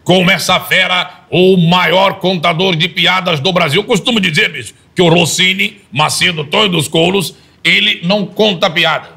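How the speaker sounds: apresentador de auditório, começo agudo e alto, depois devagar; imitação do Faustão. Shown as a demonstration. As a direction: anuncie como apresentador de domingo, arrastando as frases. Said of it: "Imita um pouquinho só do Faustão". (imitando o Faustão ao apresentar Rossini, devagar e empolgado)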